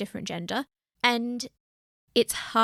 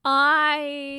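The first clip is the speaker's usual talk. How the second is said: put-on Scottish accent; 5 semitones higher, 4 dB louder than usual. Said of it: "You're Scottish all of a sudden".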